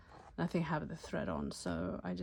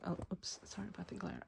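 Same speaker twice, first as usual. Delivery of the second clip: soft whispered oops; whispered aside; 5 dB quieter, faster than usual. Real, not acted. Noticing the glare, quick aside.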